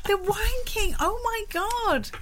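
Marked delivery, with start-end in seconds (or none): 0.0-1.0 The wanking with wanking as /waɪ̃ŋkɪ̃ŋ/, higher; Northern Irish accent on The wanking. Retold or imitated. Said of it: "Now say it in a Northern Irish accent".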